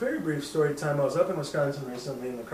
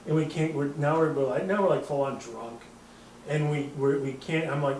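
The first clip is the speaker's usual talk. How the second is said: usual speaking voice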